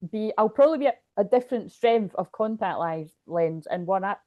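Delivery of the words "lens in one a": talking through hiccups; hiccuping. Real, not acted. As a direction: hiccups breaking the words. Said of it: "I can't stop hiccuping".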